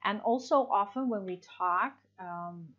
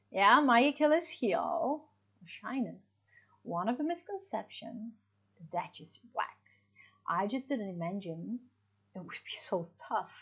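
teacher modelling phrase pauses; pauses between thought groups. Shown as a demonstration. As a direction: pause briefly after each thought group. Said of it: "So there's this very short, brief pause".

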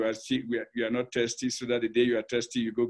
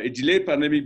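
"delayed" pushed a little higher and louder; stress on delayed; 3 semitones higher, 6 dB louder than usual. Real, not acted. Expert explains the continent's delayed pandemic, stress on "delayed". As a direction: lean firmly on the word "delayed". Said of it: "I emphasize the word delay".

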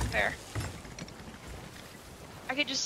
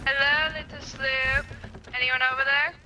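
raised voice in a put-on accent; calling out; 2 semitones higher than usual. Hailing the other ship's crew, calling out. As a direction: hail them across the water, moderately raised. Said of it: "Yell at 'em".

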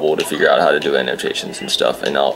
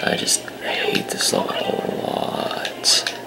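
low, soft muttered complaining; low frustrated mutter; 12 semitones lower, 7 dB quieter, slower than usual. Real, not acted. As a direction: grumble it under your breath.

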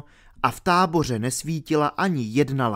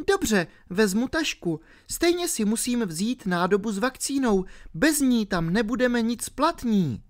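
put-on higher girlish explaining; a ten-year-old girl explaining herself; 10 semitones higher than usual. A narrator's reading. Alenka explaining to R why she fell asleep, girlish.

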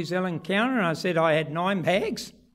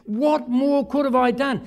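voicing God; 4 semitones higher than usual. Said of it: "He's gonna say".

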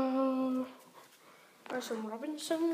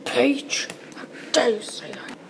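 indignant whisper. Pretend. Whispered outraged reply.

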